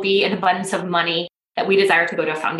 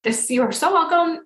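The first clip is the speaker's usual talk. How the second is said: getting emotional; 8 semitones higher than usual. Real, not acted. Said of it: "I'm gonna get emotional about it".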